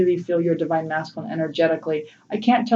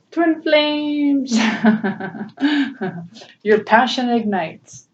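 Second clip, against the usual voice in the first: excited reading; 5 semitones higher, much slower than usual. Real, not acted. Reading the card, laughing.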